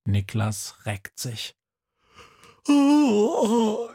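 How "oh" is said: high, loud waking yawn; big yawn. Acted. Boy waking up on the lawn, long yawn. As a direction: stretch out a groggy yawn. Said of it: "gähnt er".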